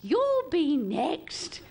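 drawn-out, sing-song You'll be next; old relative teasing. Retold or imitated. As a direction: tease slowly like a nosy aunt. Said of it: "every old relative came up, right, and went".

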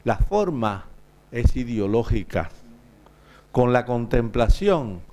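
measured Spanish poem reading with long pauses; solemn poet's cadence, pausing between lines; poetry recitation. Acted. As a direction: recite line by line, letting each phrase fall at the end. Poet recites own Spanish poem.

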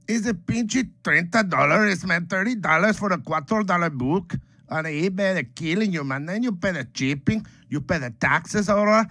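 comic indignation at shipping and taxes; mock outraged rant. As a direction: rant about the prices like you're being robbed. Ranting about eBay prices.

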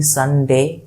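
সানডে said as two beats, সান then ডে; two-beat SUNDAY. Shown as a demonstration. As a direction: mark both syllables of সানডে. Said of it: "এটা দুইবারে উচ্চারিত হয়".

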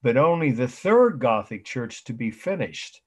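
stressed key words, with pauses between phrases; careful repeat for note-takers. Shown as a demonstration. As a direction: state it deliberately so students can write it down. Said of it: "say it slowly".

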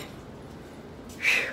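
heavy winded exhale; out-of-breath sigh. Real, not acted. Vlogger winded from going down the stairs, out-of-breath sigh. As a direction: blow out air, short of breath. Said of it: "be out of breath".

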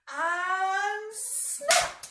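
sudden loud, high snap. Acted. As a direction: make the children jump. Crocodile snaps.

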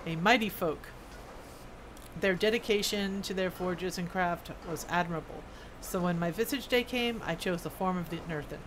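lightly voiced dwarf smith, storytelling; dwarf smith character. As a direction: read it as an earnest old-world craftsman.

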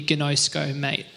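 lightly put-on Australian accent. Shown as a demonstration. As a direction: say GINOSKO with a hint of Aussie twang. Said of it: "In Australian, it would be".

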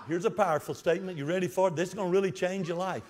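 dry sarcastic hype, quick and low. Acted. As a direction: fake build-up, tongue in cheek. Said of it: "you can already tell I'm sarcastic".

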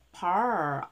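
"par" ending on a clear English r; audible r. Shown as a demonstration. Teacher breaking down partners, audible r. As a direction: curl the r at the end of "par". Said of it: "알 발음 있어요".

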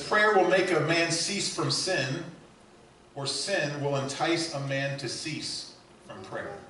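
slow, loud and high, every word weighted; booming proclamation. Acted. Pastor proclaiming Bunyan's quote to the church, slow and booming. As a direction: thunder it out from the pulpit.

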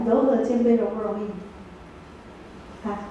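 very slow, each word stretched; unhurried teacher's prompt; slow drawn-out question. Shown as a demonstration. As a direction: draw the question out slowly for the class. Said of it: "哦，来，".

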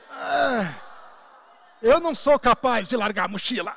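a laughing, helpless admission ending in an "ai"; mock defeated laugh with a yelp. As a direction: laugh it off as impossible, then cry out. Giving up with laugh.

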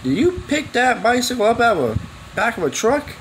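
a hint of a cop grilling him; imitating the cop. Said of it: "He's like".

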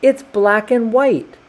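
high, loud, drawn-out complaint; loud protest. A narrator's reading. Animals protest uncoloured food.

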